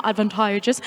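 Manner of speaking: advantageous with a light Finnish lilt, ending on a rise; jokingly copying a Finnish accent on advantageous; Finnish-sounding advantageous. Real, not acted. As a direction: repeat advantageous the way the Finnish player says it. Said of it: "I sound Finnish now".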